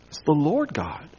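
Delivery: breathy whispered aside, no voice. Real, not acted. Preacher whispering God's name to the congregation. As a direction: drop to a reverent whisper on "It's the Lord God".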